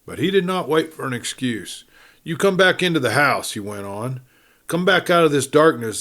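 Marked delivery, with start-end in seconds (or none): 2.2-6.0 alarmed. Acted. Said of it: "the sharp note of alarm".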